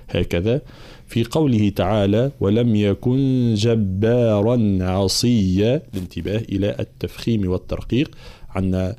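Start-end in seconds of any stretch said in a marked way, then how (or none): 2.4-5.8 slow chanted tajweed recitation; slow Quran chant; Quranic recitation. Shown as a demonstration. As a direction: recite it measured and melodic.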